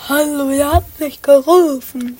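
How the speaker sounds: ghost voice. Pretend. Child plays the ghost.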